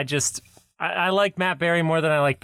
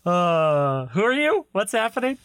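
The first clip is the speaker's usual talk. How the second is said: face not working; 3 semitones higher than usual. Pretend. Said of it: "My face doesn't work 'cause I'm having a stroke".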